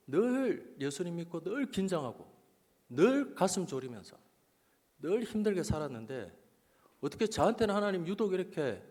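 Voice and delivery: mildly hurt protest to God, retold; 상처받은 하소연. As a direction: lean on each grievance as if pleading your case. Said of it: "하나님께 상처를 받았어요". (서운함을 담아 따지는 기도)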